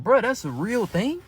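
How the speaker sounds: high, slow, stunned question; stunned disbelief. Retold or imitated. Telling viewers his realization, high and stunned. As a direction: let the shock pull it up high and slow.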